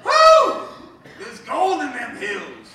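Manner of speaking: put-on old prospector voice, slow drawl; cowboy sidekick. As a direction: whoop like a grizzled gold prospector. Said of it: "talk in my old prospector voice".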